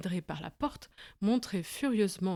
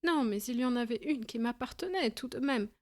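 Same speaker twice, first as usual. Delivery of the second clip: whining; 5 semitones higher than usual. Acted. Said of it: "gémit le petit homme".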